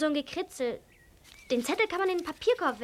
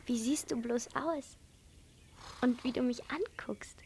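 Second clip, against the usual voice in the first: soft whisper to a strange animal; 4 semitones lower, 7 dB quieter than usual. Acted. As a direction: hush it so the tapir stays calm. Girl softly greets strange animal.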